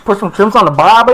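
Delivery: broad mock Australian; Australian accent. Host joins co-host's accent gag, mock Australian. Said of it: "Okay, Australian accent".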